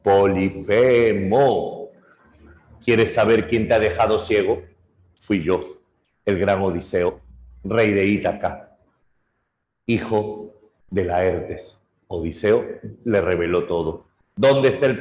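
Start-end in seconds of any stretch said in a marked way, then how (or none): 0.0-11.8 boastful pride. Acted. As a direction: gloat down at the cyclops from the ship. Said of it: "comete soberbia". (Odiseo se jacta ante Polifemo, lento y fuerte)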